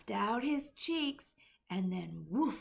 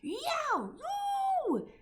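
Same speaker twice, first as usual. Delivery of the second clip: high, loud anguished yowl; roaring giant; 6 dB louder than usual. A narrator's reading. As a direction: howl out in pain from the nightmare. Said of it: "roared the flesh lump eater".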